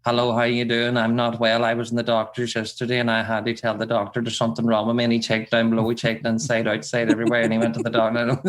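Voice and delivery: low monotone rant without a breath; rambling Irish granny. Shown as a demonstration. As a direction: ramble on like an old woman unloading her ailments. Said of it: "she just rambles on like a rant".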